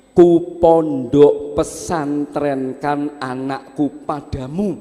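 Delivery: grave, measured husband's reply; calm husband. Acted. Husband entrusts son to wife, slow and firm.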